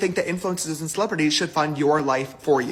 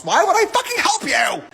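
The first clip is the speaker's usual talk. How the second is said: higher, yelled refusal; angry shout; 10 semitones higher than usual. Real, not acted. James Charles refusing to help a fan, shouting. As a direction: blast the refusal out.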